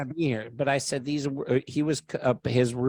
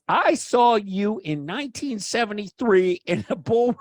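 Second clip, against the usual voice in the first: put-on drunk guy; 9 semitones higher, 5 dB louder than usual. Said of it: "he goes".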